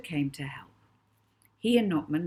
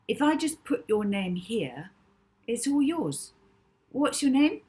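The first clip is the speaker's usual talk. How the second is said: eager Molly; 6 semitones higher, 6 dB louder than usual. Acted. Molly eagerly asks name.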